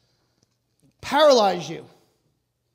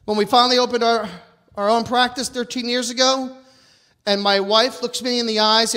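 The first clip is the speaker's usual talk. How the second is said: getting louder; 5 dB louder than usual. Real, not acted. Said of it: "I'm loud, I just went louder".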